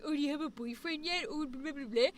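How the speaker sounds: soft, quick mock nosy-relative voice; teasing relatives. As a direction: mimic prying family, running into blah-blah babble. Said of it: "if people were doing".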